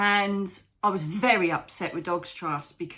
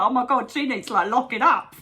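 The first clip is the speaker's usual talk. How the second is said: appalled onlooker; 5 semitones higher, 7 dB louder than usual. Retold or imitated. Voices onlookers reacting to her crying.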